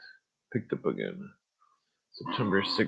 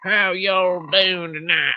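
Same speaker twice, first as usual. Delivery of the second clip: slow, higher, louder Southern country drawl; 8 semitones higher, 4 dB louder, slower than usual. Shown as a demonstration. Repeating the greeting in his country voice. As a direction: stretch out the greeting, full country. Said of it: "that's my country voice".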